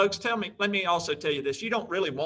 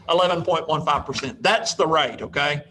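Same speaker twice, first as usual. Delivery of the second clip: emphatic; 6 dB louder than usual. Real, not acted. Triumphant answer after the cheer.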